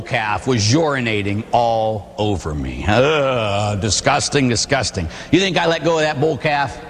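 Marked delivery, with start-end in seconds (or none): 2.9-5.1 repeated in disgust, falling away; mock disgust. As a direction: spit out the word in revulsion. Recoiling from urine.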